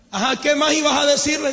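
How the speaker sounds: sarcastic. Retold or imitated. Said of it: "Eso es sarcasmo".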